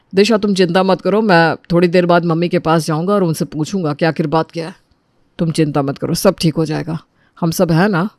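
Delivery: low, gentle comforting; reassuring. Acted. Husband promises crying wife he will ask mother, reassuring.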